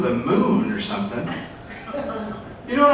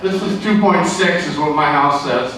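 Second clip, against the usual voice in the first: cocky buyer; 3 semitones lower than usual. Retold or imitated. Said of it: "they're all cocky".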